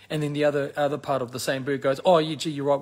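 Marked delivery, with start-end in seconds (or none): 2.0-2.8 louder, hammed-up gee-whiz giving in; government wing giving in to the opposition, hammed-up; mock meek agreement. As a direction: play the government caving in eagerly. Other wing meekly agrees.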